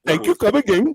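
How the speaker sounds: put-on Asian accent. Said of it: "B-Tech Asian accent".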